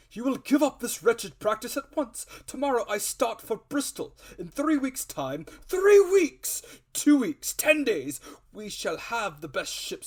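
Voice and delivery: high, loud, breathless enthusiasm; the squire carried away by his plans; rising to a giddy peak of excitement; overexcited squire. Acted.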